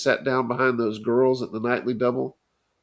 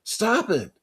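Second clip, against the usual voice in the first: gasped through clenched teeth; 11 semitones higher than usual. A narrator's reading. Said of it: "Johnny gasped from behind clenched teeth".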